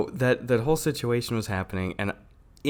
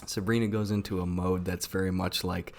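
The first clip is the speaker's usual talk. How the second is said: hushed, softer confiding voice; 5 semitones lower, 6 dB quieter than usual. Real, not acted. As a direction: lower your voice like sharing a secret. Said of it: "I love how you're whispering".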